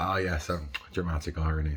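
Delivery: ordinary talk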